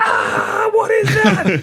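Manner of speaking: very high, drawn-out, acted child's scream. Retelling how a frightened child reacted to a huge worm: imitating a child screaming. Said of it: "my youngest was, like, screaming".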